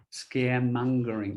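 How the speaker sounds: Scaremongering with "mun" and a hard G; careful pronunciation demo. Shown as a demonstration. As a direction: spell it out by ear: Scaremongering, all one word. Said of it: "M O N G, not M U".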